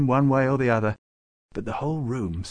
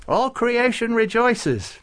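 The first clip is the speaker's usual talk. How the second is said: high, loud, drawn-out exultation; happy rejoicing; 13 semitones higher, 6 dB louder, slower than usual. A narrator's reading. Farouk celebrating Klaus's decision, happily. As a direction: proclaim joy slowly, pitched right up. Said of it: "Farouk said happily".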